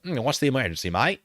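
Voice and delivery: mock Aussie accent, casual; lightly put-on Australian accent. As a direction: imitate an unbothered Australian driver. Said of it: "we're still doing the Australian accent".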